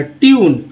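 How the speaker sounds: ट्यून drawn out as tee-oon; ट्यून with a clear yoo sound; pronunciation demo. Shown as a demonstration. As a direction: glide from ee to oo in ट्यून. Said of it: "ई यू के रूप में है".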